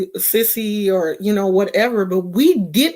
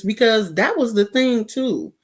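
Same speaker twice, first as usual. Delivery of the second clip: ordinary talk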